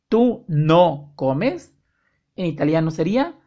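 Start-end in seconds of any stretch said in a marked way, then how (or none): 0.1-1.8 slow repeat. Shown as a demonstration. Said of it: "esa pregunta es en negativo".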